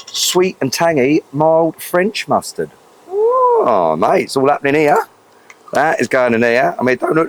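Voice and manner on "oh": excited oh. Real, not acted. Reacts to the mustard going in.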